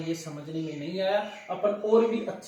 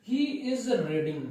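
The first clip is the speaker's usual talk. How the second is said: each word drawn out slowly for the class; slow dictation; 3 semitones higher, much slower than usual. Shown as a demonstration. Teacher reading the example sentence slowly to students, drawn out. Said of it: "आगे देखो".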